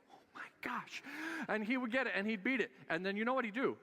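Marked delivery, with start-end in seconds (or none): 0.1-1.0 höher, leiser, genervtes Seufzen; exasperated sigh. Retold or imitated. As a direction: gespielt genervter Vater, übertrieben. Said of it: "I'm like".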